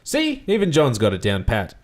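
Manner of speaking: a cheeky showman aside; Bert quip. Acted. Bert joking about John's mouth, cheeky.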